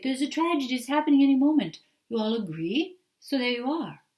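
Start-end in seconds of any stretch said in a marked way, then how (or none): 0.0-1.8 fast, loud alarmed warning; mock doom. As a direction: blurt it out as a frantic prophecy. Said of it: "it's like".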